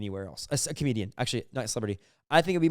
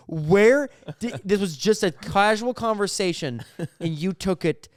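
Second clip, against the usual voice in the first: incredulous outburst; 5 semitones higher, 5 dB louder, slower than usual. Retold or imitated. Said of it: "And you're like".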